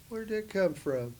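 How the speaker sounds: lightly amazed question; retold amazement. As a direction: ask in wonder. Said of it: "I said".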